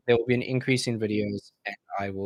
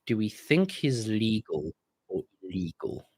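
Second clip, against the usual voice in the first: lightly voiced suspicious local; 4 dB quieter, slower than usual. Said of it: "I think their brain's going".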